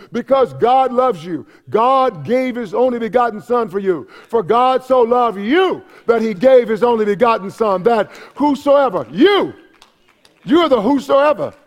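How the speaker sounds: fervent sermon delivery; impassioned preaching. Real, not acted. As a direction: drive it home to the congregation. Preaches at full force.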